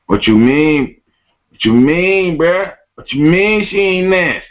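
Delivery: mock outrage at a claim; incredulous. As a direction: climb in disbelief. Incredulous rising repetition.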